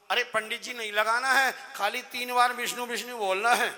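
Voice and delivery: loud mocking echo; mimicking the pandit. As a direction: parrot the priest back at him, loud and cheeky. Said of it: "मेरी नकल कर रहा है".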